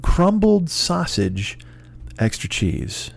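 reading the receipt. Retold or imitated. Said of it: "and it said".

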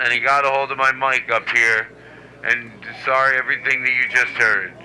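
smooth it over for shoppers; store owner on PA. Acted.

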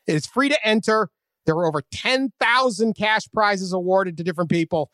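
upbeat ad read; booming prize announcer. Acted. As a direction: sell the contest like an announcer. Reads sponsor ad.

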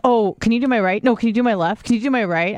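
dithering, anxious run of questions; mild panic. Retold or imitated. Patient stalling the nurse at a blood test, mildly panicked. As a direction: retell your nervous stalling, lightly. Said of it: "I start freaking out".

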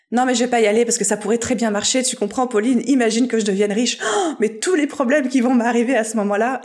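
lightly panicked, lively self-talk, gasp before the worry; a touch of hammed-up dread; mock panic. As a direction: act out someone talking themselves out of it. Voices an anxious self-excuse.

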